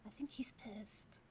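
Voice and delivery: hushed aside, breathy whisper. Real, not acted. Player whispering to the table about the angry NPC. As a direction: whisper it so Wu won't hear.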